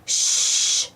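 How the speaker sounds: gentle hush. A narrator's reading. Booker T hushing Baby Bop in the library. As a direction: hush a child kindly. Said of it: "gently hushes Baby Bop".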